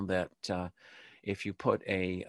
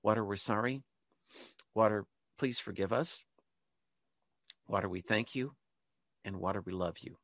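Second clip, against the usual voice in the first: led prayer. Shown as a demonstration. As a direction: pause after each short plea, as if leading a congregation. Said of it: "Please, please say it with me".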